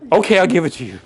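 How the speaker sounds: a mock salesman caving, laughing. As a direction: give in with a chuckle. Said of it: "we sound like a used car salesman".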